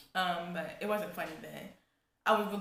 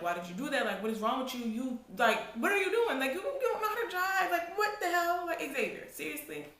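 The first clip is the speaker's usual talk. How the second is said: mock dad yelling, building to much higher and louder; imitating dad yelling; 9 semitones higher, 7 dB louder than usual. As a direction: play the furious dad scolding the son, rising to a high half-laughing yell. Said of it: "yelling at my brother".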